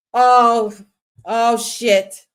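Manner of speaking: sudden loud shock; shocked outburst; surprised shout. Real, not acted. Live reaction to a big move.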